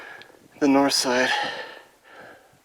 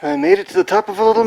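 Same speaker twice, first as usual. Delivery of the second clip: excited; 8 dB louder, faster than usual. Real, not acted. Reaching a summit.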